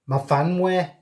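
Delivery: amateur Welsh accent on the name; attempted Welsh accent. Shown as a demonstration. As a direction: have a try at a Welsh accent. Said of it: "Oh, my Welsh accent".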